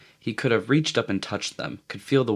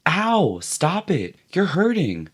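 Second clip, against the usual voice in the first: in pain; 9 semitones higher, slower than usual. A narrator's reading. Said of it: "then in real pain".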